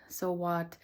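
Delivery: quiet, settled "So what?" that dismisses the critic; calm self-reassurance. Retold or imitated. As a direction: let "So what?" fall gently, shrugging it off. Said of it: "And then finally saying".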